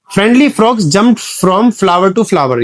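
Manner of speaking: each word drawn out slowly; slow example read. Shown as a demonstration. Teacher reads the example slowly to show the t sounds. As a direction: spell out the alliteration slowly. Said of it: "एफ, एफ, एफ की sound".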